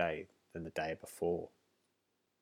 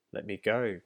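cried out; 2 semitones higher, 5 dB louder than usual. Acted. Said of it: "cried the queen".

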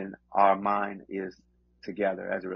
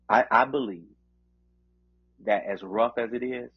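fervent preacher cadence; preaching. Acted. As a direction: preach it with conviction. Closing sermon encouragement.

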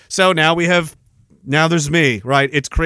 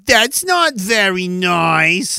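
a hint of whiny child; 3 semitones higher, much slower than usual.

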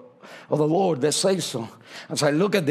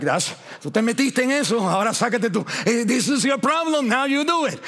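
scolding mother; 5 semitones higher, faster than usual. Retold or imitated. Mom's scolding saying.

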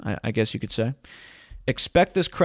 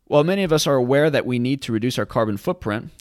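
rereading; 3 semitones higher, 4 dB louder than usual. Real, not acted. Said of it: "let me read that again".

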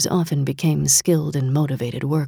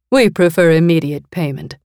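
cool mistress; 2 semitones higher, 6 dB louder than usual. Acted. Mistress character voice.

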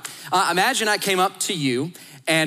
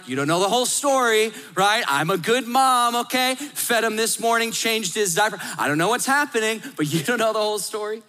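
defensive; 4 semitones higher than usual. Retold or imitated. Mom defending herself in store.

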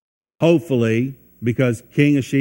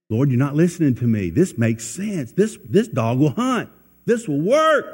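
mock pleading argument; 4 semitones higher than usual. Believer argues with God.

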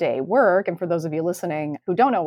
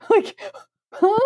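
incredulous huh. Real, not acted. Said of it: "Like, I can't".

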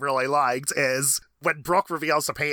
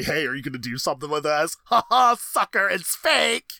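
sneering panto villain. Retold or imitated. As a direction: gloat like a cartoon villain tricking a rival. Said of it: "entice Keith and say".

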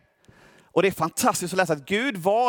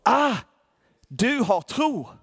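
higher gasp, then slow knowing words; Paul suddenly perceives the man's faith, high slow realisation; 5 semitones higher, much slower than usual. Retold or imitated. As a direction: realise it all at once. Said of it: "Paulus får en uppenbarelse och förstår att".

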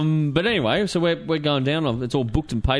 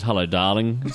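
lower, seductive greeting to a mate; mock-romantic lower hello darling; flirty hello darling; 5 semitones lower than usual. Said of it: "And the way he says it, too, I melted".

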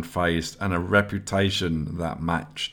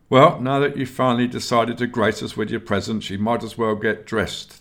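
higher and louder, sarcastic scolding; sarcastic grunt; 5 semitones higher, 5 dB louder than usual. Acted. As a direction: needle the late aspirant, loud and gruff. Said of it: "the arms master grunted".

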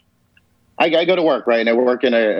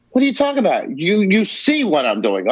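incredulous protest; 6 semitones higher than usual. Retold or imitated. Retelling how he answered his uncle's ghost, high and incredulous. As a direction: sound baffled and a bit hurt.

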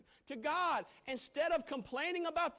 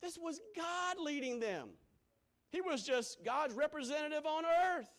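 rising preacher's cadence; building sermon delivery; preaching. Real, not acted. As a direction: preach it out with fervour. Preaching at full force.

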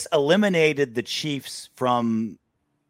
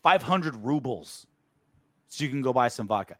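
mock gift giver; 5 semitones higher than usual. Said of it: "It's like".

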